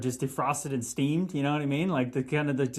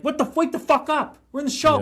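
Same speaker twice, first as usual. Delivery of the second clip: much higher and louder, half-shouted rant; mock yell; 12 semitones higher, 6 dB louder than usual. Guest imagining yelling at flat teammates, a loud rant. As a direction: bark it like a fed-up teammate. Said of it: "I would just be, like, losing my shit".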